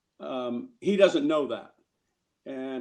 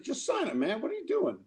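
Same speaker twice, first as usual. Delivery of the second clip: mock pleading; 8 semitones higher than usual. Bettis urging Favre to sign.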